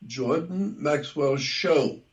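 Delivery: slow, with the word Show pressed hard; stress on show. Shown as a demonstration. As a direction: lean on Show in Jordan Maxwell Show. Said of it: "I emphasize the word show".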